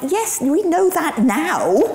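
high, slow, laughing through the words; amused, wry laugh; laughing reply. Retold or imitated. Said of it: "I'm like".

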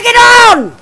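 loud, drawn-out call; rallying shout. Real, not acted. Player urging a fight, shouting. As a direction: holler it out. Calling out in game.

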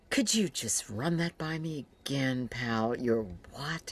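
high, incredulous, half-laughing disbelief; can't believe what she just heard. Retold or imitated. Woman retelling her shock at his wedding news, high incredulous disbelief. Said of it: "And I remember it was just like".

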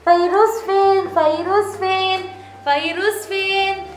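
slow sing-song game calling; playful seeking. Pretend. Mom playing blindfold seeker, slow playful calls. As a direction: stretch it out teasingly.

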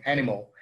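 "animal" said as AN-ih-mol; English pronunciation. Shown as a demonstration. Teacher modelling for students, "animal" ending in -mol. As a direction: say "animal" with the last a like o. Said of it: "be careful with that pronunciation".

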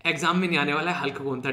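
low, chuckling aside; amused laughing. Real, not acted. Teacher joking Hulk won't be examined, amused laughing. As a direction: let a laugh into the words, pitched low.

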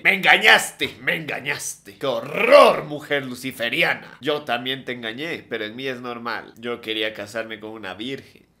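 mock jilted fiancé. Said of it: "llega el jovenazo y le dice".

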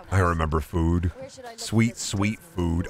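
dreamy. Pretend. Dreamy critic line.

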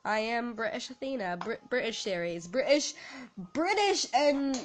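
lightly faked British accent; put-on British accent. Player names her British series, light put-on British accent. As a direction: play British for the episode. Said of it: "apparently I have a British accent this episode".

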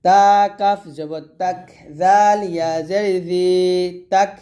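slow sing-song letter-by-letter recital; spelling drill. Shown as a demonstration. Teacher spelling Arabic syllables aloud for students, sing-song drill. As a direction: chant each letter and vowel mark for the class.

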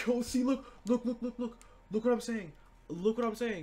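hyped, pointing at the screen; can't believe the deal; excited. Real, not acted. Spotting a snipe live.

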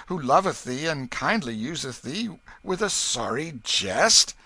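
put-on old king teasing his son gently; gentle king. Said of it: "his face grew gentle".

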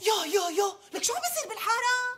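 scandalised exclamation. Acted. Scandalised by gossip.

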